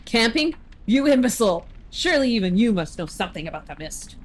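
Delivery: pompous, indignant knight; hammed-up knightly outrage; outraged knight. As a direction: lecture like an affronted royal guard.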